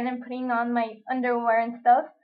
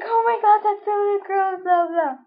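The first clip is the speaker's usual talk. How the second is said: wimpy; 5 semitones higher than usual. Retold or imitated. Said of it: "And all wimpy and stuff".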